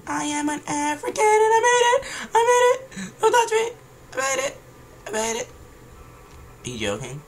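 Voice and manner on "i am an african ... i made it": put-on very high, squealed African accent; mock African accent. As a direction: exclaim in a hammed-up, high-pitched African accent. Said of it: "Now I sound African".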